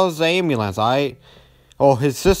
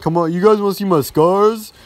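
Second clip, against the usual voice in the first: lightly voiced eager teacher; 6 semitones higher, 4 dB louder than usual. Teacher voiced offering scars.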